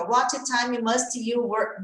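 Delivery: slow, choppy "What time must you work?" with each word separate; mock choking on the words, slowly; halting struggle. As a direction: stumble through like a nervous learner. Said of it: "Aí você engasga".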